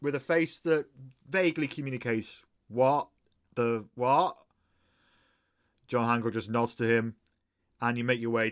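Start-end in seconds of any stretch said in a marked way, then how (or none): 2.7-4.4 confused. Acted. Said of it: "looks very confused".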